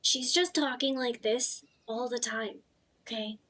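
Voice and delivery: lightly demonstrated character voice; a hint of a put-on, throaty voice; Beck. Shown as a demonstration. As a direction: show how the character talks. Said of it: "Beck's voice".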